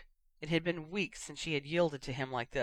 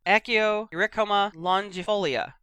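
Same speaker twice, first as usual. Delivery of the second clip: firm spell; 4 semitones higher, 7 dB louder than usual. A narrator's reading. Summoning spell.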